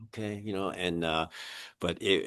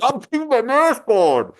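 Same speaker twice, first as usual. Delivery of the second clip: mock earnest reply; 7 dB louder than usual. His own reply, voiced.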